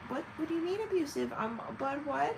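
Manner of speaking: high-pitched fake innocence; mock incredulous. Abuser answering being called abusive, mock-baffled. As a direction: imitate someone baffled at being accused.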